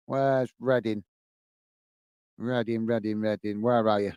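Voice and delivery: low, soft talking to oneself while looking something up; absent-minded searching. Real, not acted. Searching scores, talking to himself.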